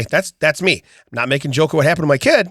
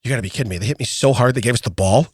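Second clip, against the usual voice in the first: laughing disbelief; 4 semitones lower than usual. Retold or imitated. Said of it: "and I went".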